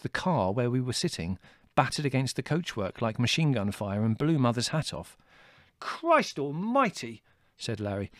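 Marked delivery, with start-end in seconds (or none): 5.8-7.2 high, drawn-out exclamation of disbelief; appalled oath, pitched high; shocked exclamation. A narrator's reading. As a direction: exclaim slowly, aghast at the blast. Larry reacts to the explosion.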